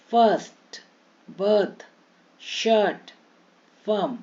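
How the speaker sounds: "फर्स्ट", "बर्थ", "शर्ट" with an uh vowel. Shown as a demonstration. Teacher modelling i as uh, word by word. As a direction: separate words, each on a held uh sound. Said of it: "आई का अ के रूप में".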